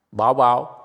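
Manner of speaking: lightly mocking talk to a pet; dog-owner talk. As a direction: draw out "boy" as if teasing a dog. Mocking self-questioning as talk to a dog.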